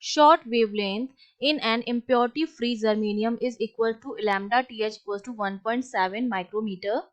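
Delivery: slow, deliberate dictation pace; reading the question aloud. Acted. Teacher reading a physics question to her class, slow and measured. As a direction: spell the problem out slowly for students to copy.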